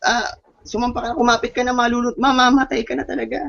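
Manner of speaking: high, urgent mock yell from the helicopter; mock shouting. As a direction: shout him aboard, pitched well up. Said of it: "sumisigaw na".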